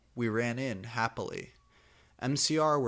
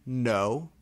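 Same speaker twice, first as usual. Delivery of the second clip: muttered loudly; 6 dB louder than usual. Acted. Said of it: "he muttered loudly".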